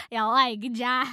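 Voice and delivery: loud bee impression, near own voice; attempted movie-line impression. Shown as a demonstration. Reader tries the film bee's line again, loudly. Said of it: "trying to do a good impression of it".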